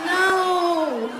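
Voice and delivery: high laughing no; laughing denial. Retold or imitated. Punchline denial.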